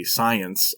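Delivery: science said with audible scare quotes; ironic air quotes. Acted. Podcaster mocking nineteenth-century race science, ironic air quotes. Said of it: "air quotes from play school around the word science".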